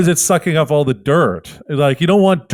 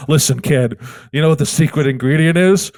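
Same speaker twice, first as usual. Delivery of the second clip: sinister Wonka; 3 semitones lower than usual. Acted. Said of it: "I go".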